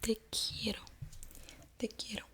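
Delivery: quiero said as kee-EH-ro; careful Spanish Te quiero; Spanish pronunciation. Shown as a demonstration. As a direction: whisper Te quiero with quie as kye. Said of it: "It's an I, but it sounds ki".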